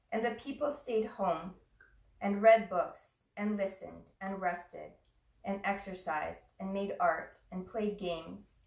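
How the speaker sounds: measured reading with pauses between phrases; unhurried recital, phrase by phrase; poem reading. Real, not acted. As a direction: read a poem aloud, letting each phrase settle. Reads a poem to class.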